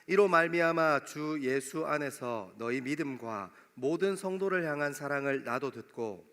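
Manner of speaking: ordinary talk, nothing marked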